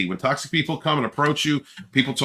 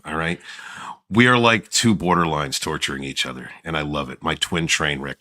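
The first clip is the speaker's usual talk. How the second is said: deep-voiced singer impression; 7 semitones lower than usual. Pretend. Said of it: "you dropped into your Barry White voice".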